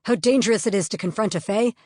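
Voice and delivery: loud, exasperated lecture; ranting. Acted. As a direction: scold her down the phone. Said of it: "he was mid-rant".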